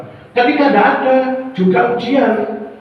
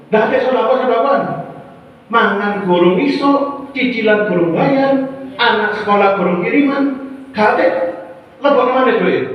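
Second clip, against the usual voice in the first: higher, sharp scolding from the wife; angry scolding wife; 4 semitones higher than usual. Acted. Wife scolding her husband over the missing money, angry and raised. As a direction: nag him hard about the missing money.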